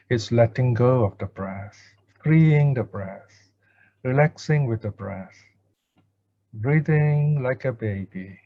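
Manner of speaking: calm instruction with long pauses; guided meditation. Real, not acted. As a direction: guide listeners gently, leaving space between phrases. Leads a breath meditation.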